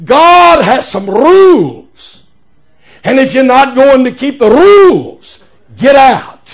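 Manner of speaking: imitated old Welsh preacher, words drawn out; slow, emphatic mock-Welsh delivery; old Welsh accent. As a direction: pronounce judgement in a put-on Welsh accent. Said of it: "in his old Welsh accent".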